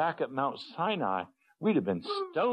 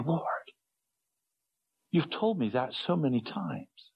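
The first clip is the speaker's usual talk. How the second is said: retold humble prayer; 4 semitones higher than usual. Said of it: "I'm saying".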